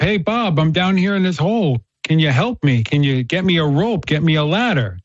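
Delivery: mildly hammed-up plea to a buddy; mock scream upward. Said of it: "you know, he's screaming up".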